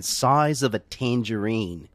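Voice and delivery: slow Australian accent demo. Shown as a demonstration. Host shows friends the trick phrase, Australian accent. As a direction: draw out the words in an Australian accent. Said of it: "a way to get to the Australian accent".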